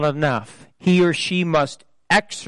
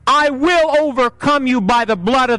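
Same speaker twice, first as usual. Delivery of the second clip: lightly imitated movie-hero threat speech; a preacher's attempt at a measured, menacing warning; deliberate, declaimed defiance addressed to the devil; Liam Neeson; 8 semitones higher, 3 dB louder than usual. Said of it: "do it in Liam Neeson's voice".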